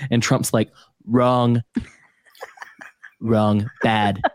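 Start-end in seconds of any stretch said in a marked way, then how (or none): 1.1-1.6 clipped mock Trump "Wrong"; Trump impression. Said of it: "eerily good at that". 3.2-4.2 Trump impression. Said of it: "eerily good at that".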